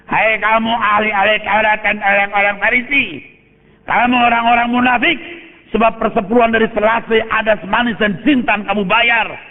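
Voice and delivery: stern rebuke. Acted. Preacher voices Jesus criticising the Pharisees, stern rebuke. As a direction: rebuke them from the pulpit, pitch held high. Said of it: "dia mengkritik orang Yahudi".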